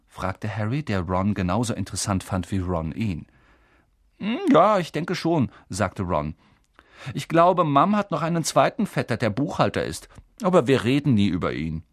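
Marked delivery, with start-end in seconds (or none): 4.2-11.8 put-on eager boy Ron. Ron talking to Harry.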